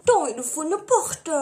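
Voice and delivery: "Attends, il faut une porte" in a mock Marseille-Italian mafia accent; half-Italian, half-Marseille gangster accent. Shown as a demonstration. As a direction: play a mafia guy with a Marseille twang. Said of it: "c'est un mix d'italien ou de mafia".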